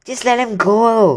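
high, loud, slow plea; earnest urging boy. Acted. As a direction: press him to let the dragon go. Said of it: "Harry urged".

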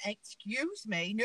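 slow, drawn-out imitation of shocked refusal; mock shocked. Friend retelling her refusal to come up, mock shocked. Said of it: "she was really, really shocked".

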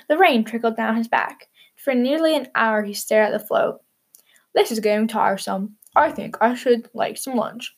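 gentle storybook reading; calm picture-book narrator; story narration. A narrator's reading. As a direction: read it like a bedtime story. Reads story aloud to children.

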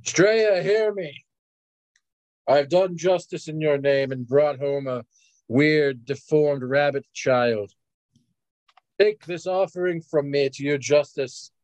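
lightly acted, measured prayer to a goddess; solemn invocation. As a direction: call on your goddess in slow, stately phrases. Player voices prayer to goddess.

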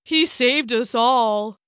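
slow, tearful Irish voice; near tears. Acted. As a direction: hold back tears as you speak. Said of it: "said Tim, near tears".

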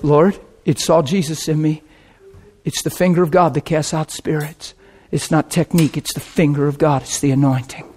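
quiet inner prayer. Retold or imitated.

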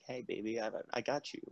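soft, breathy come-on whisper; sexy whisper. Retold or imitated. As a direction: whisper it like a seduction. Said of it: "you whispered, like, real sexily".

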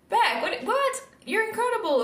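imitating pastors, pitch leaping high in disbelief; mock disbelief. Pastors call out her lie, with high incredulous surprise. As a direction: squeak out a surprised what?.

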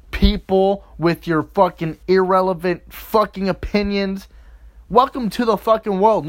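angry rant. Acted. Ranting insults at Facebook commenters.

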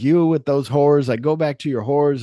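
loud mocking scold; angry scolding. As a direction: shout it with contempt. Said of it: "he's like".

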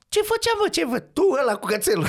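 very high-pitched mimicked taunt; mock challenge. Acted taunt from their street-racing days.

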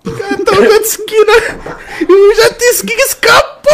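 real helpless laughter; laughing. Real, not acted. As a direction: fight through tears of laughter. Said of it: "Eu tô chorando".

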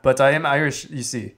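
put-on lightly done Irish accent; a hint of mock Irish lilt. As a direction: play at being Irish. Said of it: "This is my Irish accent".

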